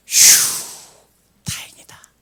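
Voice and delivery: a breathy whispered sigh of relief. Retold or imitated. Retold inner relief.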